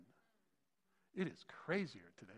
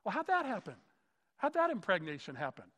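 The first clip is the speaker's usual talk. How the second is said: skeptic's pitch jumps up, loud and baffled; incredulous skeptic; 4 semitones higher, 6 dB louder than usual. Retold or imitated. Skeptic baffled by the virgin birth, incredulous. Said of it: "And he's like".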